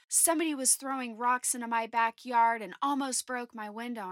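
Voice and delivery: retelling the angry neighbor's complaint, a touch indignant; agitated neighbor. Retold or imitated. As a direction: complain like the annoyed guy next door, half-hearted. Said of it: "he's agitated, he's mad".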